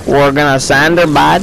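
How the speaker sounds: retried country twang, badly faked; hammed-up attempt at Southern country; country accent. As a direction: have another go at country accent. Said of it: "I can't do my country accent today".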